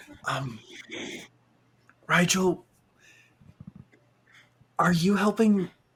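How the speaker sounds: soft, hushed half whisper. Game master voicing a character half-whispering to another player's character: half-whispering. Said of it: "he's going to kind of whisper".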